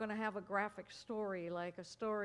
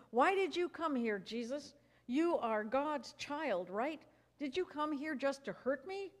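loud, higher yelling as the sick man; 6 semitones higher, 4 dB louder than usual. Acted. The sick man yells at Jesus as he arrives, loud and high. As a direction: yell it at Jesus, wild and upset. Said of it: "yelled at him".

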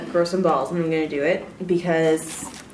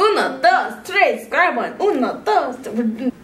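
playful Spanish countdown; 4 semitones higher, slower than usual. Real, not acted.

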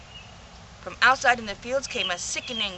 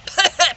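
cough; 7 semitones higher, 7 dB louder than usual. Acted. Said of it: "please pardon my cough".

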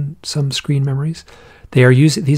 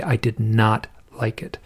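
retold whisper; 2 semitones lower, 6 dB quieter than usual. Friend recalls her eerie ghost mother.

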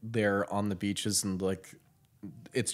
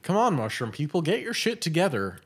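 exasperated; 8 semitones higher, 4 dB louder than usual. Real, not acted. Exasperated call to characters.

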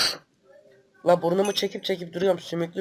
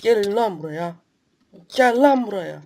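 higher and louder gamer taunt; taunting shout; 3 semitones higher, 6 dB louder than usual. Real, not acted. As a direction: yell at the enemies to come at you. Taunting enemies in game.

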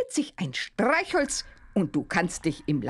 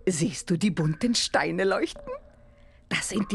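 whisper. Acted. Witch shows glowing stones in labyrinth.

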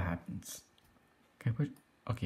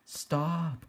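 drawn-out, higher "stop", no real volume; mild mock yell; 5 semitones higher than usual. Shown as a demonstration. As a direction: call out "stop" as a half-hearted yell. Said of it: "like, yell at him".

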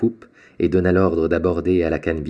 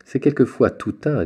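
laughing; 9 semitones higher than usual. A narrator's reading. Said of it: "dit l'armateur en riant".

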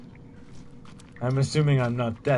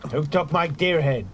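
loud demanding call; yelling across the room; 3 semitones higher, 4 dB louder than usual. Real, not acted. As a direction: shout it out to everyone. Repeated calling out.

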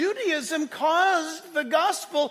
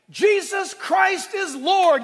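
slow, loud proclamation; bold declaration; 5 semitones higher, 5 dB louder, much slower than usual. Shown as a demonstration. Pastor shows the congregation how to declare it, slow and loud. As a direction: proclaim it boldly, drawing every word out. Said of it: "You don't whisper it".

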